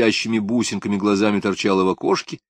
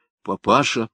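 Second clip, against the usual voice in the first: stern rebuke. Acted. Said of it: "строго сказала Клавдия".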